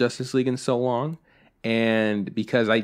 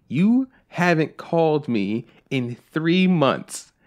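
slow, higher-pitched accusation; retold reproach; 5 semitones higher, much slower than usual. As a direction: mimic an aggrieved dad spelling out his complaint. Retelling dad's phone complaint.

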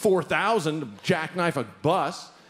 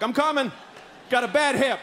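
higher-pitched pleading call; mock hurried latecomer; 5 semitones higher than usual. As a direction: lightly act a flustered passenger calling out. Acts hustling toward the bus.

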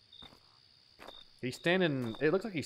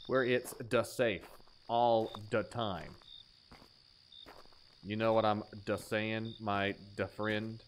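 mock stoner voice; 8 semitones lower, 5 dB quieter, slower than usual. Voicing a silly shower character.

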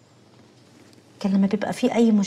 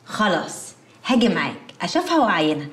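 ordinary talk, nothing marked

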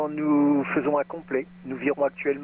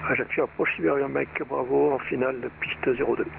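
tinny radio pilot call; crackly cockpit radio voice; over a pilot headset. Real, not acted. Pilot calling approach on radio.

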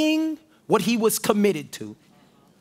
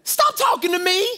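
higher, irritated brush-off; Peter's denial; 11 semitones higher than usual. Acted. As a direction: snap it away, much higher. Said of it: "But Peter said".

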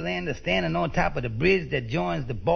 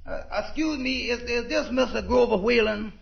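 higher, halting polite question; timid approach; 5 semitones higher than usual. Acted. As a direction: approach the great man politely, stammering a little. Timidly approaches an important man.

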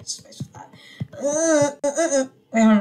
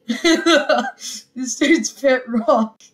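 laughing through the words; giggling, can barely talk; 4 semitones higher, much slower than usual. Real, not acted. Laughing at pet rock.

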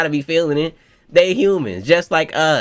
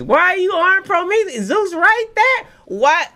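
stunned disbelief; 3 dB louder than usual. Real, not acted. Reacting to Big Mom on Prometheus, high amazed cries.

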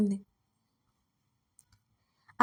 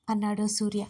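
ordinary delivery

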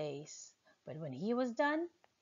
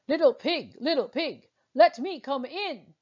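big bad wolf; 4 semitones higher, 7 dB louder than usual. Wolf calls at pig's door.

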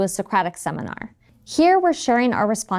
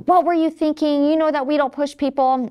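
mock berating; 6 semitones higher than usual. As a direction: scold the toddler like an exasperated mom. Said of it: "berated him and said".

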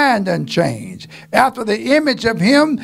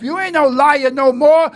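preaching shout; 4 semitones higher than usual. Real, not acted. Preaching at full force.

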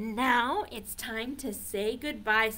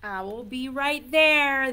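owl voice; 3 semitones higher, 7 dB louder than usual. Acted. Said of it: "That's funny".

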